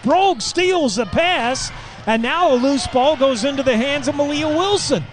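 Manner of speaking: play-by-play man lifting his voice for a steal; excited call. Real, not acted. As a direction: pitch jumps up on the steal.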